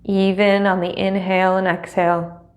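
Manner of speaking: measured, unhurried meditation guide with long pauses; guided meditation. Acted. Teacher settling students into seat and breath, guided meditation. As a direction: guide them gently into stillness, leaving space between phrases.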